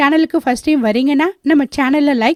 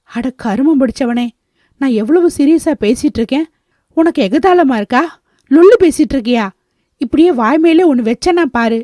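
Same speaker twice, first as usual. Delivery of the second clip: mildly angry, rising scolding; glaring annoyance; 3 dB louder than usual. Acted. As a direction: tell him off with growing indignation. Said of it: "என்று முறைத்தாள்". (கோபமாக முறைத்து)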